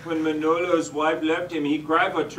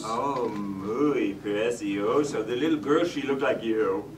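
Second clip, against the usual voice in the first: lightly hammed Spanish accent; a comic Spanish-accented admirer; 4 semitones lower than usual. Speaks in a Spanish accent throughout.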